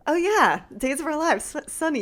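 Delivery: playfully mocking an overexcited recognition; mock gushing fan. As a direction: imitate a starstruck fan. Mocking fan-style recognition he'd never say.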